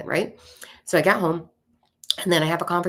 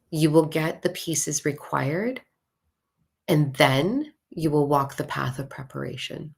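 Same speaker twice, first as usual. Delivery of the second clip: slow, deliberate, spaced-out delivery; slow statement; slower than usual. Shown as a demonstration. Teacher stating the lesson slowly to her audience. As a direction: lay out each word slowly like a teaching. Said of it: "So lesson number one".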